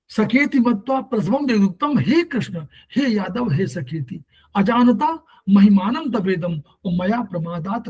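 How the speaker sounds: slow chanted verse; Sanskrit recitation. Acted. Teacher recites Arjuna's plea to Krishna, slowly intoned. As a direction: intone the shloka reverently.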